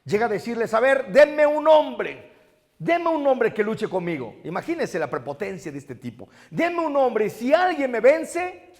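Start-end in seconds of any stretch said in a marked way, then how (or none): 0.7-4.4 loud, slow, high bully's challenge; Goliath dares Israel, slow and loud; Goliath taunting. Retold or imitated. 6.5-8.7 high, slow boastful dare; mocking giant's challenge, drawn out; Goliath taunting.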